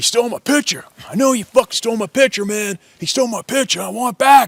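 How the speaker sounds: put-on very high, shrill, sneering shouted voice. Retelling a quarrel in the cabin, retelling a sneering yell. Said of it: "sneering and yelling at him".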